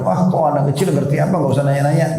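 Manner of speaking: dismissive parent. Acted. Acted parent brushing off child's question.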